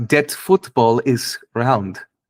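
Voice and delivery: put-on German accent. Trying out accents after a long break, giving one line: German accent. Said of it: "this is the German accent".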